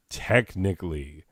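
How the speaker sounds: 把“Technically”单独拎出来，逐个音节咬清; 停顿后单独重读“Technically”; 强调technically. Shown as a demonstration. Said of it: "Emphasis on the technically".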